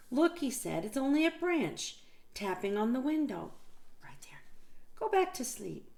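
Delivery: patient explanation to the little one; Big Mouse voice. Acted.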